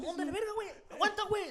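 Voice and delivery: high, loud fight callout; hammed-up imitation of a brawler; mock yelling. Acting someone in the fight.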